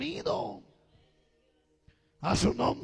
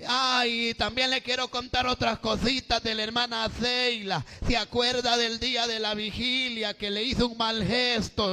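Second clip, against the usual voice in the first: lightly voiced gossip's chatter; a touch of singsong tattling; gossiping church sister; 2 semitones higher than usual. Church sister brings gossip to sister Dilvia, lightly acted tattle.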